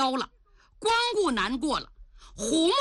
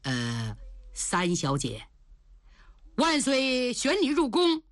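suppressed anger; 3 semitones lower than usual. Acted. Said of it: "他强压怒火说".

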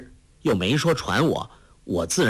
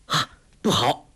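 a quick startled cry; sudden alarm; 3 semitones higher than usual. A narrator's reading. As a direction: blurt it out as it dawns on him. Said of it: "忽然叫道".

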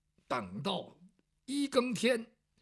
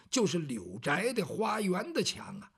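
ordinary delivery

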